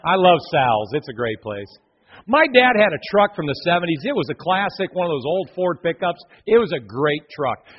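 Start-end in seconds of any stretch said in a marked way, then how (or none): 0.1-1.7 louder, cheering the thrift store like a fan; playful mock Salvation Army fan, louder. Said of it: "all you Salvation Army fans going".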